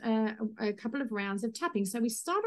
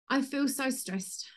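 slow guided tapping phrase; 3 semitones higher, slower than usual. Shown as a demonstration. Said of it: "it's talking to your body".

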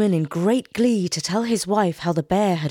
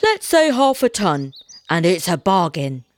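louder, firm deal making; bargaining woodman; 4 dB louder than usual. Acted. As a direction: seal the bargain. Woodman sets price.

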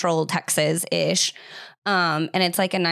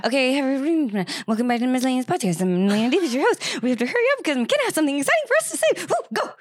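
excited; 6 semitones higher, faster than usual. Real, not acted. Hurried excited host intro.

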